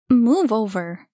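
loud, slow, playful demand; bossy. A narrator's reading. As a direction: shoo him aside. Annie shoving onto the couch.

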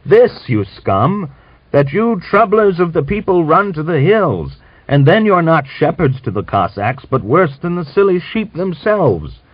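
put-on old man scolding Grigor as a troubler; harangue. A narrator's reading. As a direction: hammer home the prophecy.

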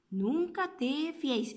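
soft, hushed delivery of the saying; softly. Acted. Mother teaching the saying, soft and hushed. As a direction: say it gently and quietly, like a secret. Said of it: "suave, escucha".

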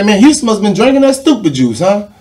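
Jerry Jones on the phone. Retold or imitated. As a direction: tease him about Houston.

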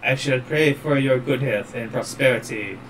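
a hint of French accent, a formal goodbye; lightly French-accented solemn farewell. Ghostly priest blessing the prince, mild French accent. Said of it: "I don't know why I'm going very French".

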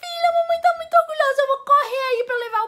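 very high, loud, overjoyed shriek, easing toward the end; hammed-up proud mom screaming down the phone; mother's excited scream. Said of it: "Ela simplesmente gritou no telefone".

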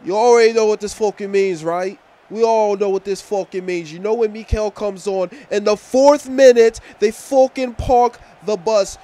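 exasperated rant. Acted. Acted rant at a boring Chelsea game.

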